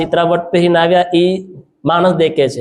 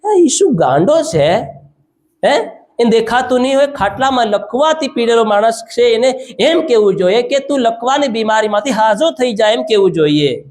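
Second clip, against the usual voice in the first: scoffing objectors; 5 semitones higher than usual. Acted. Preacher acting out doubters who question Jesus forgiving sins, mildly scoffing. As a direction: voice the doubters' indignant complaint, a touch hammed-up. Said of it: "કેના કહેતા રહ્યા".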